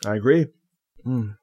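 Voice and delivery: chewing while talking; talking through a mouthful of cherry; mouth full. Real, not acted. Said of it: "I'm just chewing on my".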